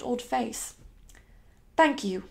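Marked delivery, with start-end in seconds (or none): 1.8-2.2 restrained, stiff little thank-you. Acted. Young lady starching herself against her own emotion, stiffly. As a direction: hold the feeling back, stiffly polite. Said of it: "I said rather stiffly".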